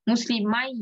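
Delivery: মুসলিমাই with a lengthened "mai"; madd on ai. Shown as a demonstration. Teacher shows the madd, lengthened ai. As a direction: hold the closing glide of মুসলিমাই. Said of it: "কি মাদ হচ্ছে".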